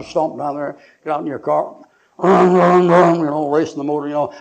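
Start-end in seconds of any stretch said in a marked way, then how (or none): 2.2-3.2 loud vocal engine revs; revving engine noise. Retold or imitated. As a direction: imitate a motor being raced. Imitating a car motor racing.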